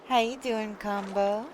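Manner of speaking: cheery greeting. Real, not acted. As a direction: greet them warmly and brightly. Greeting a game character.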